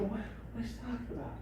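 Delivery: soft, quick, puzzled little voice; confused chicken-eagle voice. Acted. Eagle baffled by the coach, soft and quick. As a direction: mumble it fast like a confused bird. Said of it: "They have different voices".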